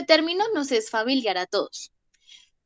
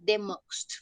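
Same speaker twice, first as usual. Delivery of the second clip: slow model phrase; 3 semitones lower, 6 dB quieter than usual. Shown as a demonstration.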